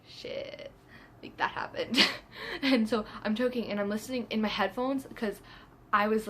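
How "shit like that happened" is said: near-whispered mock shock; hushed, voiceless disbelief; stunned hush. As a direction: imitate stunned friends under your breath. Friends' stunned reaction, retold.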